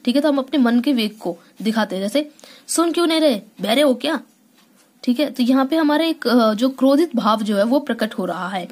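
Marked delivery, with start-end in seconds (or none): 2.7-4.2 mock angry. Shown as a demonstration. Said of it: "जैसे हम किसी पर क्रोधित होते हैं".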